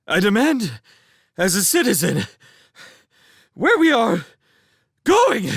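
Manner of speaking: loud, high, gasped in broken bursts; panting protest. A narrator's reading. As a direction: demand it while out of breath. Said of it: "he panted".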